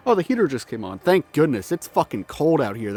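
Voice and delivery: talking out of breath; slightly winded, catching breath. Real, not acted. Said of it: "That's why I've been so out of breath today".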